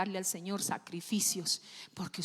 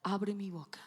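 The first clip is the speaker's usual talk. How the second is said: whispered prayer; 6 semitones lower, 5 dB quieter than usual. Acted. David's prayer voiced.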